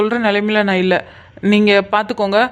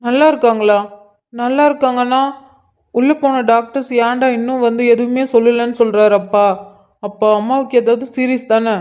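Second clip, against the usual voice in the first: panicked son; 3 semitones higher than usual. Acted. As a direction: beg to hear she's alright. Son panics about mother.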